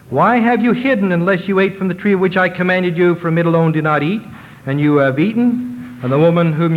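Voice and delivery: high, demanding questioning voice; voice of God. Acted. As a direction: question him sternly from above.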